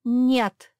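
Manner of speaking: loud sudden refusal; sudden cry. Acted. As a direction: refuse him outright. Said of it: "неожиданно воскликнула собачка".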